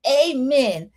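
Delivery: prayerful amen. Retold or imitated. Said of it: "ends the argument like a prayer".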